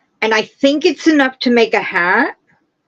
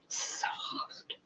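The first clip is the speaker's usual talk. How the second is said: whisper; 27 dB quieter than usual. Real, not acted. Feeling the yarn again.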